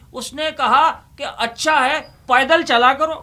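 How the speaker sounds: poem recitation. Acted. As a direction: land the witty second line with a lift. Delivers punchline of couplet.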